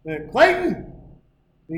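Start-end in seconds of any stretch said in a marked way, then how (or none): 0.3-0.8 calling out. Retold or imitated. Calling out to the pitcher.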